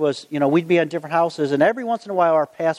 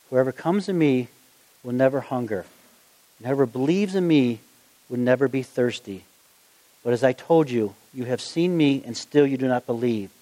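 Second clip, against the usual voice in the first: measured, lower-pitched Bible reading; scripture reading; 4 semitones lower than usual. Acted. Preacher reads Jesus' words to the congregation, measured and low. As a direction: read the verses out soberly, pitch lowered.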